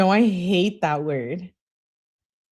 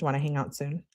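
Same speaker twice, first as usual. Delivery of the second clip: "Wanna hang out soon?" read softer and lower, a doubtful rise on "soon"; quiet questioning read; 4 semitones lower, 8 dB quieter, faster than usual. Retold or imitated. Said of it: "She questions her own message".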